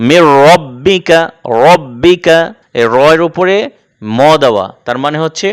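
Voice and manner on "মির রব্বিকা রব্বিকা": 'রব্বিকা' with a full, rounded heavy r. Shown as a demonstration. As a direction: recite 'রব্বিকা' slowly, thick 'ro' not thin 'ra'. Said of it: "মোটা করে পড়তে হবে".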